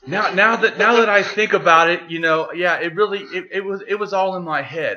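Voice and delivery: mock drunk believer conceding; drunk guy admitting. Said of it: "And he goes".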